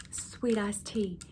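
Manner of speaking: slow drawn out sweet iced tea; sweet iced tea said slowly, remembering; drawn-out recall. Acted. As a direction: stretch sweet iced tea as it comes back to you. Repeats the drink name slowly.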